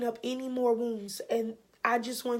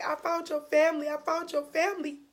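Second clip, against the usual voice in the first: lifted voice, on the verge of real tears; teary retelling; 4 semitones higher than usual. Real, not acted. Repeating the coworker's news to viewers, teary retelling. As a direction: retell the good news while welling up. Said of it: "about to get teary-eyed".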